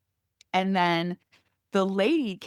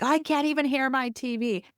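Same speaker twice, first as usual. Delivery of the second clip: high-pitched mock complaint of an old neighbor; yelling old man; 10 semitones higher than usual. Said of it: "the old man yelled at the kids".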